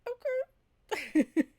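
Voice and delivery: high-pitched put-on okay; mock flustered agreement. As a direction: squeak it out as a pretend reaction. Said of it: "you're like".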